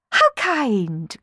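sweet, falsely shy coo. Acted. Sisters pretending to be shy before courtiers, cooing. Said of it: "cooed Clorinda and Tisby".

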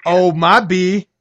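SoCal slang, drawn out and loud; surfer-style California accent; Californian accent. Acted. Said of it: "That was my Californian accent".

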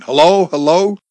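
high, loud rising hellos; anxious calling. A narrator's reading. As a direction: call anxiously into a dead line. Driver checking a possibly lost call.

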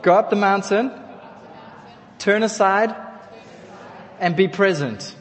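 call-out phrase. Shown as a demonstration. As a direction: proclaim it for all to echo. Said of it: "Can you say that?".

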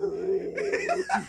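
unvoiced mimicked horror-film ghost noise; imitated ghost noise. Friend demonstrating the film ghost's noise, imitated spooky sound. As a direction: make Toby's spooky noise by mouth. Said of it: "he always makes that".

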